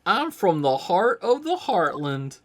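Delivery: high, loud Southern country gal; southern accent. Acted. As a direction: belt it out like a bubbly Southern gal. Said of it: "that southern accent".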